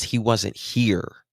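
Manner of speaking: slow, detached quote with a falling end; flat imitation of the mother. Commenter quoting the missing boy's mother, flat and distant. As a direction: echo her cold words without feeling. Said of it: "she says".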